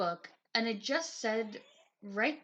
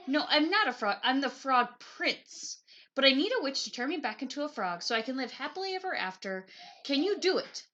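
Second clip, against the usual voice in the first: in one long breath. Acted. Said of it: "in one long breath".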